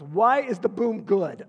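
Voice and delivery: put-on loud, drawn-out puzzled child; mock-bewildered little girl, stretching the words; child's question. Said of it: "She goes".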